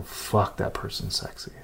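hushed breathy whisper of desire. Retold or imitated. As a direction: breathe it out under your voice. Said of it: "to hear their partner go".

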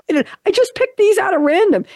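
high-pitched, laughing protest; amused, voice pushed high by laughter. Real, not acted. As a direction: say it through a real laugh. Laughs at repeated precocious ages.

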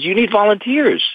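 the director tells the weary dad he needs volunteers; retold director's advice. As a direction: hand down the answer like a mentor.

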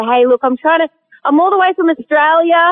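put-on thick Australian accent. Australian visitor greeting a landowner, hammed-up Australian accent. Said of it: "I did put the accent on pretty thick".

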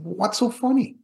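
indignant high-pitched snap of a question; annoyed. Retold or imitated. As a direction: demand it, offended and rattled. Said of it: "the more I'm getting annoyed".

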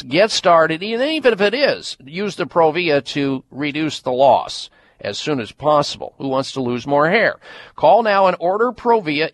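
upbeat ad read for a hair product; infomercial. Acted. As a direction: pitch it like a radio spot. Host reads hair-loss ad.

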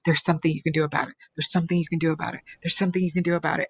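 fast, driving repetition; repeating insistently. Retold or imitated. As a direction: hammer it like a broken record. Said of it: "they keep saying this over and over".

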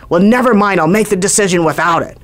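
an irritated senior doctor brushing it off, gruffly. Retold or imitated. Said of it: "the voice goes really gruff".

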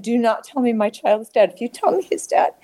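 insistent plea climbing high; desperate warning. Retold or imitated. Mother begs not to hear her child is dead, desperate warning. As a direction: refuse the news, pitch rising. Mother refusing news of death, retold.

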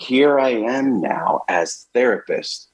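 slow, measured, self-important; slow therapist voice. Retold or imitated. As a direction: announce yourself as the professional. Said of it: "To sort of signal".

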